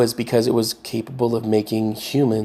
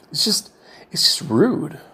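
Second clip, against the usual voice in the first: whispering; 5 semitones higher, slower than usual. Real, not acted. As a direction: whisper it, half to yourself. Quiet aside on rudeness.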